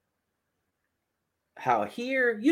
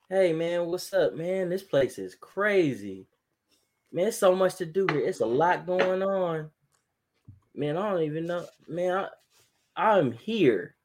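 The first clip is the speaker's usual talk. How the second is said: higher, breezy fake-relaxed phone chat; fake casual; 5 semitones higher than usual. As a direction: act like you're having a great time. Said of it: "the conversation goes like this".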